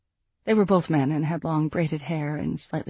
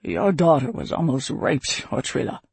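concerned; 4 semitones lower than usual. A narrator's reading. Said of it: "said with concern".

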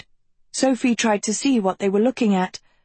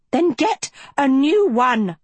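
high, sharp snarl; 8 semitones higher, 3 dB louder than usual. A narrator's reading. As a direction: bite the order out. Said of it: "Lady Lesso snarled".

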